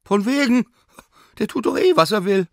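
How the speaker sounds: very high, shrill-pitched exasperated maid. Acted. Sina tells the professor the dog ate everything, exasperated. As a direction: throw up your hands at the greedy dog.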